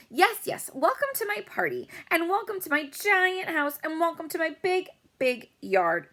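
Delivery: very high, loud, showy bragging; bragging girl. A narrator's reading. Rich girl welcoming everyone to her giant house, very high and showy. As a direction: gush over your own party.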